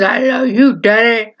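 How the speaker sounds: lightly voiced trailer quote again; a hint of a dramatic trailer line; movie trailer line. Brother repeating the trailer line to dad, lightly dramatic. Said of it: "imitating the scene from the trailer".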